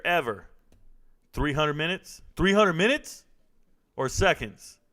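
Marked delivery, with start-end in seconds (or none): 2.4-4.8 can't believe that timeout length; incredulous. Real, not acted. Streamer checks a viewer's timeout, incredulous.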